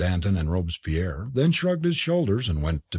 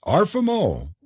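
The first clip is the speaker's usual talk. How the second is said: high exclamation, mildly raised; crying out; 8 semitones higher than usual. A narrator's reading. Forbes to departing club mates, crying out. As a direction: call it out on a lifted pitch. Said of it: "cried Forbes".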